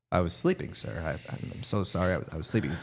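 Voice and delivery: low, soft, apologetic mumble; sheepish confession. Retold or imitated. Wrestler owning up to the boss backstage, sheepish and quiet. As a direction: shrink into a small, guilty apology. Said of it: "I go".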